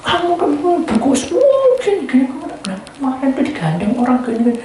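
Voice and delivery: high-pitched, stirring-up gossip; goading. Retold or imitated. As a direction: egg a friend on with excited tattling. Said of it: "dia manas-manasi".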